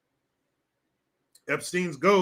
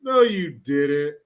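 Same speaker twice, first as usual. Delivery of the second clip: laughing disbelief; 3 semitones lower, slower than usual. Real, not acted. Disbelief at chat.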